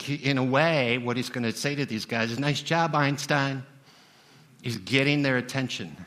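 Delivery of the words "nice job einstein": sarcastic. Retold or imitated. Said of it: "he's being sarcastic".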